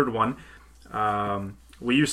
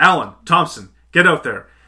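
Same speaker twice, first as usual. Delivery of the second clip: instinctive hollering at full volume, very loud; 4 semitones higher, 9 dB louder than usual. Retelling a panicked coach's split-second call during a playoff game: imitating a coach yelling. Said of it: "he instinctively yells out".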